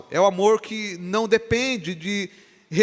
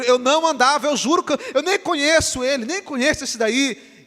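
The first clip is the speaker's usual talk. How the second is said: panicked denial; 6 semitones higher, 3 dB louder than usual. Acted. Peter denying Jesus, cornered.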